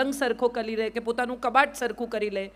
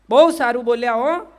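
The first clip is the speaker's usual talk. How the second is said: loud, hammed-up "well spoken" compliment; a mock pat on the back; mock audience praise; 6 dB louder than usual. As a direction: imitate a listener's polite praise. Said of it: "આટલું કહેશે".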